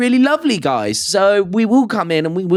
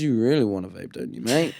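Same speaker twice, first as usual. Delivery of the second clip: sweet-talking brain; 5 semitones lower, 7 dB quieter than usual. Retold or imitated. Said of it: "It goes".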